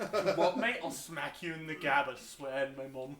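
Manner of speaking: muted British accent attempt. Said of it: "The way you say it sounds different".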